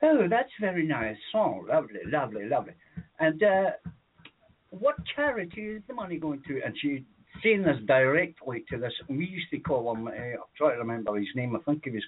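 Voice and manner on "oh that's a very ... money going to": put-on older woman. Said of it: "an older woman that says".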